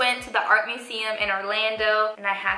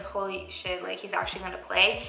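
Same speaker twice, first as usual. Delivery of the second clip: softer, awed under-the-breath exclamation; awed hush; 5 dB quieter than usual. Retold or imitated. Girl recalling her amazement at the saxophone, quietly awed. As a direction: murmur it in amazement. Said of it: "I was like".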